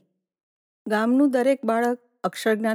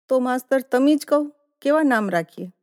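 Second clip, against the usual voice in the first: wife calling from the doorway; 5 semitones higher, 5 dB louder than usual. A narrator's reading. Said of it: "બારણાની આડસમાંથી બોલેલી".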